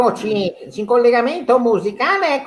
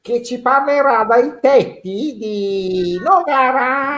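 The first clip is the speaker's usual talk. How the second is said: slow radio host; slower than usual. Acted.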